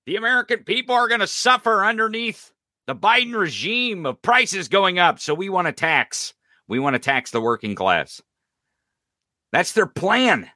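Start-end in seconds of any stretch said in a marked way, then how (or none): 0.1-8.2 higher mock outrage of politicians; mock Republican rant. Host mocking Republicans crying about inflation, higher and alarmist. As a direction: parody their alarmist campaign lines. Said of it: "yelling and screaming".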